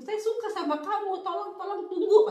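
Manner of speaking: pleading stranger. Retold or imitated. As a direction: play the man begging her to wait, a bit hammed-up. Man pleading, retold. (meniru pria memohon sambil tertawa)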